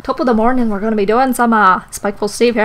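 attempted Irish accent; lightly attempted Irish YouTuber greeting; Jacksepticeye. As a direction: have a rough go at an Irish accent. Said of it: "could try to sound like Jacksepticeye".

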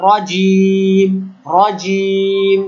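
very slow রজিম with one tap; recited single-tap r. Shown as a demonstration. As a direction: chant রজিম slowly, r tapped once. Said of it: "just একবার বাড়ি খায়".

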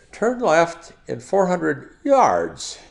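slow, high British satnav; drawn-out British navigation prompt; British GPS voice. Retold or imitated. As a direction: imitate a British sat-nav with a falling "yards". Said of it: "British accent in. I had a British person speaking in the voice of my G P S".

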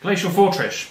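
"Fortress" slurred to end in "-trish"; accidental Sean Connery. Real, not acted. Naming his card, "Fortress" ending in a Connery-like sh. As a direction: say "Fortress" with a sh sound for the final s. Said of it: "Not Sean Connery".

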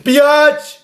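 loud, high yell of an insult; furious shout. Real, not acted. Gamer cursing at the monster, loud high yell.

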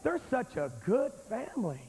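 lightly put-on voice vouching for a family; imitated well-meaning defender. Preacher mimicking those who defend a good family, light mock praise. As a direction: mildly mimic someone making excuses for them. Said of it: "Has anybody ever heard that?".

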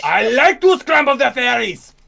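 slow, goofy character voice; slow silly voice, playing around; silly put-on voice. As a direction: ham up a goofy cartoon villain.

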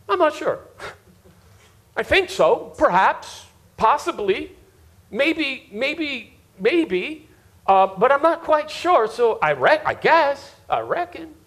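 mock-uncertain southerner trailing off into reckon; hesitant Southern drawl. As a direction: hem and haw like a Southern country man. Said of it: "just in case you don't speak Southern".

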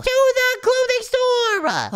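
high, slow, loud battle cry; dramatic proclamation. Acted. Spy sets off for a disguise, dramatic high yell. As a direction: announce it like a grand quest. Heroic declaration of destination.

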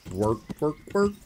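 grumbling fantasy peasant; Warcraft peasant voice. Retold or imitated. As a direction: dull put-upon peasant drone. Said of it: "Warcraft Three Peasant's Voice".

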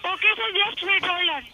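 Indian English call center agent; steady Indian accent reading a phone script. Real, not acted. Scammer call center agent talking.

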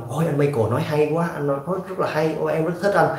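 mock fan gushing. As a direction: imitate a dazzled viewer swooning over the speaker. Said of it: "Đừng có chỉ là thôi". (giả giọng người xem trầm trồ, cao giọng, hơi chế giễu)

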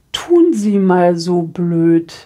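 slow, mocking imitation of the woman; drawn-out scornful jab; cold woman. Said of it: "quoting the cold woman". (langsam und spöttisch nachgeahmt)

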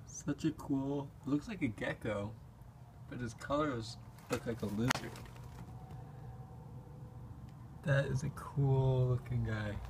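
soft awed murmur at a small creature; quiet at night. Real, not acted. Quietly admiring a gecko at night.

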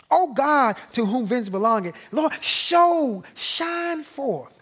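a desperate plea rising up to heaven; deep anguished cry. Shown as a demonstration. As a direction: cry out to God, pitched high and pleading. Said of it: "It's really a deep cry".

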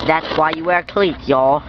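put-on mild Southern country accent. Vlogger advising viewers on cleats, mistaken country accent. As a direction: slip into a country "y'all" accent. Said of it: "I'm not country".

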